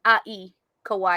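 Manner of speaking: "Ai" sounded alone like "eye", then "Kawaii"; pronunciation lesson. Shown as a demonstration. Co-host correcting a friend's pronunciation, "Ai" like "eye", then "Kawaii". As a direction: break out the "Ai", then say "Kawaii" ending on it. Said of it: "most Asian pronunciation".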